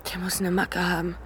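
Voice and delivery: whispered, scared aside; frightened whisper. Acted. Woman whispers in fear about the attacker. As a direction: breathe it out in fear.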